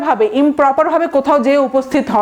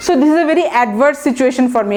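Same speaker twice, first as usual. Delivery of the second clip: slow example sentence; much slower than usual. Shown as a demonstration. Teacher repeats example sentence slowly.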